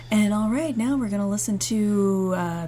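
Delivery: quiet, earnest radio DJ; smooth late-night DJ; soft DJ voice. Retold or imitated. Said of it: "used to talking like this on the station".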